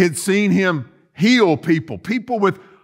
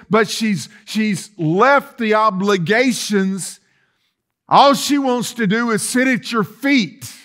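a hint of harsh, accusing complaint, pitched up; accusatory Martha; 4 semitones higher than usual. Preacher voicing Martha complaining to Jesus, mildly accusatory. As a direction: voice Martha's sharp grievance against her sister, lightly. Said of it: "Martha's tone may have been a little accusatory and harsh".

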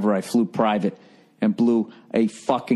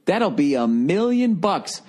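mock smug dealer; 9 semitones higher, slower than usual. Pilot salesman quoting price.

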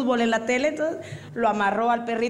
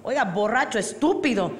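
mock impatience correcting a drunk; exasperated passer-by; 3 semitones higher than usual. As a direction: spell it out for a stupid drunk. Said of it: "lo mira el tipo y dice".

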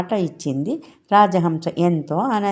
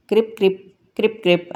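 lightly imitated sparrow chirps; sparrow chirping; 5 semitones higher, much faster than usual. A narrator's reading. Sparrow calls to the little girl, light imitated chirping. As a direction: chirp it in short pairs, a little raised. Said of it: "అని పిచ్చుక అరవసాగింది".

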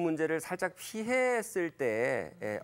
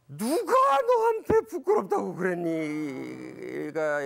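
slow, louder, gently pleading ask; tender fatherly question; 4 semitones higher, 7 dB louder, much slower than usual. Shown as a demonstration. God tenderly asking hiding Adam, slow and louder. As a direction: say it like a father hurt for his child, slowly. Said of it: "예를 들어서 라디오 극이라면 이게".

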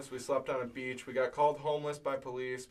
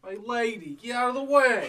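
high-pitched, hammed-up Long Island accent; 10 semitones higher, 4 dB louder than usual. Musician showing off on request, mock Long Island accent. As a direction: put on a pushy Long Island accent, building louder. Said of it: "Let me hear your best Long Island accent".

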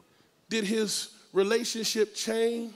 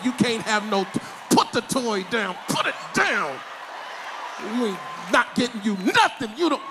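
store scolding. Retold or imitated. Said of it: "talk through your teeth at the store".

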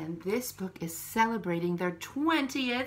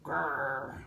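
lion growl; 6 semitones lower than usual. Acted. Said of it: "I'm not good at making a lion sound".

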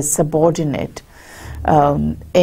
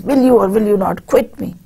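higher, faster pressing demand; emotional demand; 5 semitones higher, faster than usual. Acted. The narrator confronting Bartleby in an angry manner. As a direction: push the question out, worked up. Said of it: "he makes himself emotional and he says".

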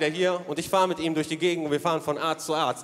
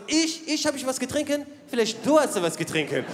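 a lightly voiced indignant father, higher at first; 5 semitones higher than usual. Father talking back to the police officer, mock indignation. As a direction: play the offended dad, lightly. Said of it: "Mein Vater so".

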